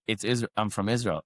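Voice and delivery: mildly hesitant, with a false start; start, stumble, then admit it, lightly acted; imitated hesitancy. Man retelling a wary seatmate's reluctant answer, mildly hesitant. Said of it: "he's, like, hesitant".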